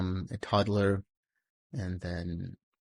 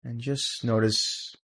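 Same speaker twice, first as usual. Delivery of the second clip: guided meditation. Real, not acted. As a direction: guide them gently into calm, phrase by phrase, leaving silence between.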